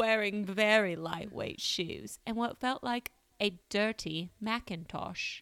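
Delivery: terrible, fake, put-on British accent. Quoting a witness description from a police report, speaker puts on a terrible British accent. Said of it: "I have to do a terrible British accent".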